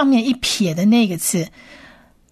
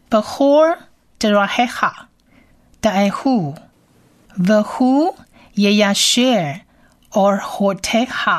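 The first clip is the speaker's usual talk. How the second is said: reading Hebrew aloud; faster than usual. Shown as a demonstration. Teacher reads the verse in Hebrew for listeners. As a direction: read each word with a pause. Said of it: "原文读一遍".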